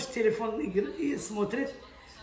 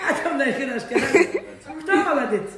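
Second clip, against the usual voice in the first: squeaky praising a dog; 5 dB louder, faster than usual. Acted. Doting praise, laughing.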